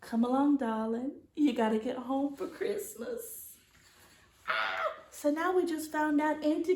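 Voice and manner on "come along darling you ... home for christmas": warm. Acted. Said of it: "winked and said".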